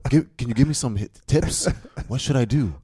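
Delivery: high-pitched, loud fake sincerity; hammed-up eager agreement; mock earnest agreement. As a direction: plead sarcastically for advice. Mock agreement, begging for tips.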